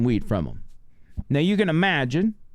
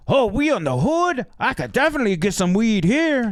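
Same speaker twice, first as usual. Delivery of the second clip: put-on high, excited voice of a drunk tourist; tipsy passenger, thrilled by the hood; 8 semitones higher than usual. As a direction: pitch up and play the eager drunk.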